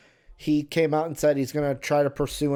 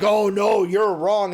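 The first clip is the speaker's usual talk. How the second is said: mock crowd outburst, louder and higher; crowd protesting; 5 semitones higher, 5 dB louder, slower than usual. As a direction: blurt it out like the offended crowd. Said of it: "right then they're like".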